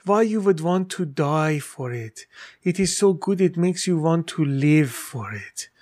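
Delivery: slow, lightly voiced mother explaining; a hint of his mother, unhurried and sure; imitating mom. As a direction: son retelling his mother's answer, lightly mimicking her slow voice. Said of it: "She goes".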